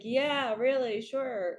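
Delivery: slow, dismissive sarcastic reply; sarcastic brush-off. Retold or imitated. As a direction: drag it out like you don't believe her. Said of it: "I said something so sarcastic".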